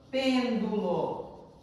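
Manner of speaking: "Pêndulo" drawn out very slowly; syllable by syllable. Shown as a demonstration. Teacher showing the class how to count syllables, "Pêndulo" said very slowly. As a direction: stretch each syllable of "Pêndulo". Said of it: "Como que eu falo?".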